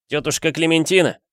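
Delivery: high, bright greeting call; exclaiming. A narrator's reading. Nephew greeting aunt, excited. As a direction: greet her like a long-lost nephew. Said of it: "воскликнул Тайло".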